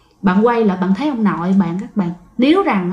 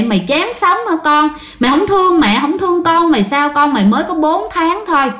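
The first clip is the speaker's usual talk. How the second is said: higher, anguished scolding; scolding mother; 3 semitones higher than usual. Retold or imitated. Mother scolds her daughter for the overdose, anguished. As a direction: scold her child in grief.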